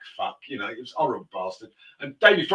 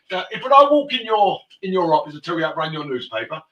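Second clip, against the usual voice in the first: heated rebuke; 3 semitones higher, 7 dB louder than usual. Retold or imitated. Chauffeur loudly rebuking his rich passenger. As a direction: give him a loud dressing-down.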